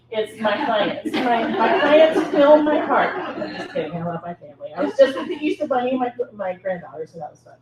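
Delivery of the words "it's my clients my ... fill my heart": laughing mock confession. Joking she prefers clients.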